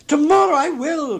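high, loud, delighted promise; eager cry. A narrator's reading. Old gentleman accepting Scrooge's invitation, crying out eagerly. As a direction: burst out with it, high and keen. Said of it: "cried the old gentleman".

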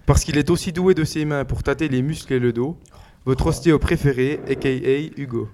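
slow, showy presenter read; announcer intro. Acted. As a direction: present him like a show host. Same intro read continues.

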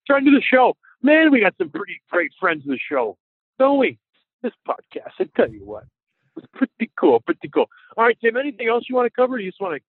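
distant phone line; sounding far away from the mic. Real, not acted. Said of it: "you sound far away".

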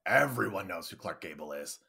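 low, quiet dawning suspicion; acted low-voiced double take; stopped in her tracks. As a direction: drop the pitch as realization hits. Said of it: "mentally stops in her tracks".

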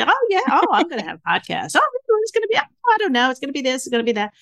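high, breezy bragging about the podcast plans; boastful big talk. Retold or imitated. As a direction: puff it up like it's already happening. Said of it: "I talked a good line of shit".

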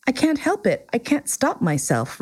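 a flustered little prince excusing himself; embarrassed prince. A narrator's reading. Prince apologizing to the king for yawning, embarrassed. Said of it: "thoroughly embarrassed".

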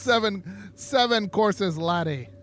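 high, drawn-out Scottish lilt; Scotch accent. Acted. Co-host joking about seven-course dinner, Scotch accent. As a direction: put on a playful, slow Scottish accent. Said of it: "I can do Scotch accents".

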